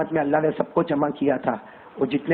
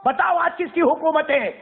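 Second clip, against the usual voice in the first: high, slow shout of the question; booming divine call; 12 semitones higher than usual. Acted. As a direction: thunder it out as God's voice. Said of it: "اللہ کی آواز آئے گی".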